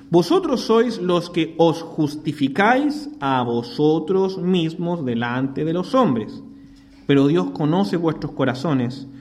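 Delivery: slow, solemn reading of the verses; scripture reading. Acted. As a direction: read the Bible passage with weight, slowly. Reads scripture aloud.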